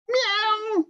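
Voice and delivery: a small, very high cat's meow; tiny meow. Shown as a demonstration. Teacher shows the cat's feeble roar, high meow. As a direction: squeak it out like a little kitten. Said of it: "That's how the cat's gonna roar".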